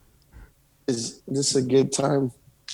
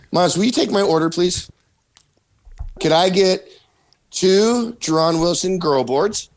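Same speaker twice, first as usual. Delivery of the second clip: put-on talking to a little kid; playful higher voice; 5 semitones higher than usual. Ordering from child playfully.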